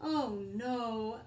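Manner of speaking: loud dismayed cry; storybook cry of dismay. Acted. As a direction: cry out in despair. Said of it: "cried the unicorn".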